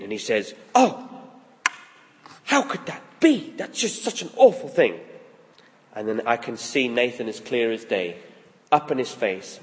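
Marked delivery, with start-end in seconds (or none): 0.7-5.0 high, loud indignant outburst; indignant outcry. Retold or imitated. David hearing of the stolen sheep, high indignant outcry. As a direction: cry out in shocked outrage at the theft. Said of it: "And David's indignant".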